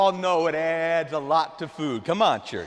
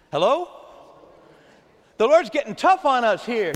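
higher, louder call to the church; raised preacher call; rousing call; 4 semitones higher, 6 dB louder than usual. Real, not acted. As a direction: rouse the church. Rousing the congregation.

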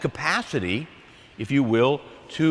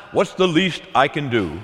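grudging minimum effort; 2 semitones lower than usual. Acted. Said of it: "that's not the language of love".

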